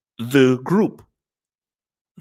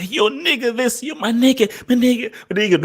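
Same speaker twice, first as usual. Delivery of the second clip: imitating white friends; 11 semitones higher than usual. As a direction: ham up a white kid talking slang. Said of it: "your white friends say".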